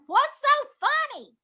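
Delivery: high, drawn-out innocent query; retold puzzled question. Actress to laughing crew after the cut, high puzzled question.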